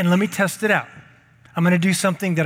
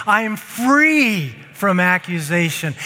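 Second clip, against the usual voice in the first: proclaimed. Shown as a demonstration. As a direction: lead them, say it big. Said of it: "Say it with me".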